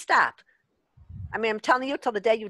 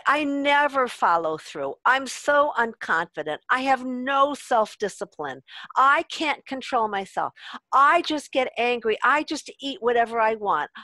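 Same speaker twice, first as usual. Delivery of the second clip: mock complaining; 2 semitones higher, 3 dB louder than usual. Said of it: "complaining and being in what I call victim mode".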